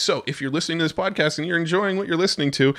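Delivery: fast, high sales pitch. Shown as a demonstration. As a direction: sell it like a promo read. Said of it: "you can pitch me on that newsletter".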